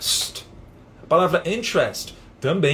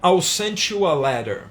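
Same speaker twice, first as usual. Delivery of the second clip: slow careful example; 5 semitones higher, slower than usual. Shown as a demonstration. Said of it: "Um outro exemplo".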